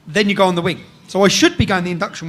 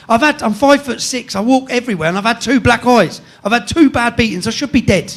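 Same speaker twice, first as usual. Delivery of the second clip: raised-pitch, defiant mock yell; retold screaming; 4 semitones higher, 5 dB louder than usual. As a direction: re-enact shouting back at threats, partly held back. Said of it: "I'm screaming it out the window".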